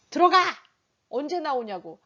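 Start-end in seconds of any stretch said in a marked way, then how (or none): 0.1-0.4 loud, abrupt command; harsh order. Shown as a demonstration. Father banishing child to the bathroom, harsh order. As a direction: bark it like an authoritarian parent. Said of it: "앞에는 뭐예요?".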